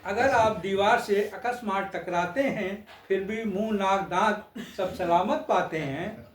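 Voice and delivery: measured stage-poet delivery; lilting satirical verse recital; poem recitation. Acted. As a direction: recite verse line by line with pauses. Repeats the humorous verse.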